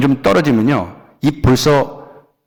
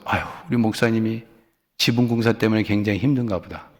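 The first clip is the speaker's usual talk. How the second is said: soft, low, sympathetic sigh of understanding; understanding wife musing softly; gentle sigh; 3 semitones lower, 6 dB quieter than usual. Pretend. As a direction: shrug it off kindly, with an 아휴. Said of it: "목사님이 막 인상이 안 좋아졌어".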